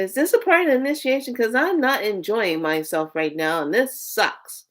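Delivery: exasperated plea to the universe; distraught wail. Retold or imitated. Asking the universe if this disaster is initiation, distraught wail.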